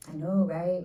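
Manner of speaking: a light imitation of East LA Chicana speech. Mimicking the writer's East LA Chicana way of talking. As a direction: tease her East LA Chicana lilt gently. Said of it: "she talks like this".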